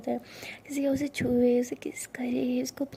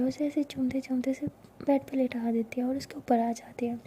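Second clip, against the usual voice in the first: whispered narration. A narrator's reading. Narrator whispering a love story to listeners. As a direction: breathe the story close to the mic.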